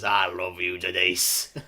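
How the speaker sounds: lightly voiced adoring older fan; a hint of a doting middle-aged fan; imitating a fan. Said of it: "that is not me exaggerating her voice".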